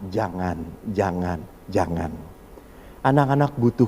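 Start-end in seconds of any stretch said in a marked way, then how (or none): 0.1-2.1 much lower, much softer repeated no; parent's low nagging no; muttered nagging. Retold or imitated. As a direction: mutter the bans under your breath.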